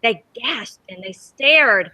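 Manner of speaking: reading a picture book aloud to the class; lively read-aloud for kids; storybook reading. A narrator's reading. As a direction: tell it gently to children, letting the wonder show. Teacher reads story to children.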